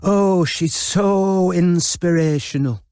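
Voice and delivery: high, slow, gushing admiration. Acted. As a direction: gush over her heroine. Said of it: "gushed Robin".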